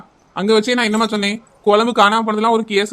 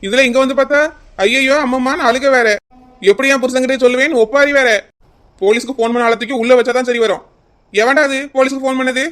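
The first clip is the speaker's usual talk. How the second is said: irritated scolding; 2 semitones higher, 5 dB louder than usual. Acted. Officer scolds timewaster loudly.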